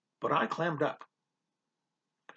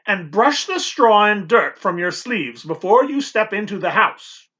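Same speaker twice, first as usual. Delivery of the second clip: bossy, raised and firm; stern housekeeper; 4 semitones higher, 4 dB louder than usual. Acted. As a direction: order him about sternly. Housekeeper gives orders.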